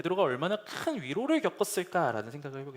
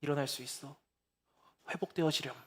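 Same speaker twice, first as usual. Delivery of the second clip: tender encouragement. Pretend. 무너진 우리를 바라보시는 주님, 다정하게. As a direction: lift someone up gently. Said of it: "보시면서".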